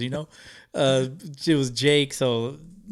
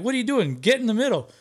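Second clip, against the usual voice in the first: much higher mock friendly call; imitating the group; 9 semitones higher than usual. Creators pulling the fan into the photo, high mock voices. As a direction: call him over, pitched way up. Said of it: "they're like".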